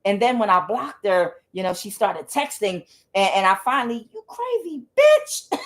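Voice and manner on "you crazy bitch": high, drawn-out cackling retort; mock outcry breaking into laughter; laughing insult. Recalling her final reply to texting sister, laughing.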